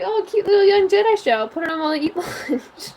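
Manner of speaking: retold cutesy delight. Retold carefree mood before the show.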